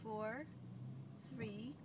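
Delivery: fading countdown. Shown as a demonstration. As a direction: let each number fade away. Countdown getting quieter.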